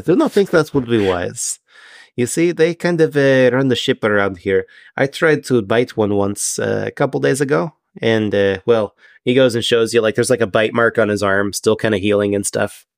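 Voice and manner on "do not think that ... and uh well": halting fish-man sharing a caution; a hint of a formal sea creature, hesitant; careful, stilted Triton; lightly voiced Triton. Game master plays the Triton.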